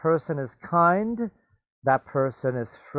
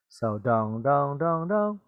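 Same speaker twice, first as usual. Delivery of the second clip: chime tones. Shown as a demonstration. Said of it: "the tone is different".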